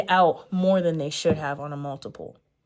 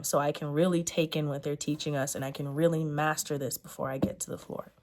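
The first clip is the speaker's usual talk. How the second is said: fading to a shaky whisper; holding back tears, then a sigh; tearing up; 3 semitones lower, 7 dB quieter than usual. Real, not acted. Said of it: "tearing up".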